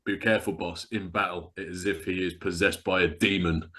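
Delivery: low quiet menacing quote; lightly voiced Vulcan Raven; quoting Vulcan Raven. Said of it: "It goes".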